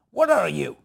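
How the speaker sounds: put-on voice of a puzzled stranger; baffled local stranger. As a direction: imitate a bewildered local confronting a foreigner. Stranger in North Carolina confronts him.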